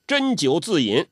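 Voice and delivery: put-on high old man's voice, sometimes dropping to a hush; old urchin complaining and reminiscing; Zhou Botong grumbling. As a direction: gripe about the weak wine like a sulky old drunk. Zhou Botong chatting over wine.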